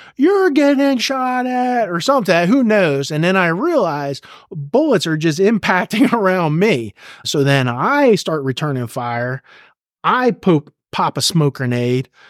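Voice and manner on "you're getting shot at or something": acted out, very high, shrill, high-pitched scream. Recalling being shot at, the speaker acts out a man screaming at him, retelling someone screaming. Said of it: "He's screaming at me".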